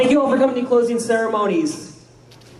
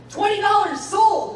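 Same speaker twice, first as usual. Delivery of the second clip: auctioneer; 10 semitones higher, slower than usual. Acted. Auction hammer call.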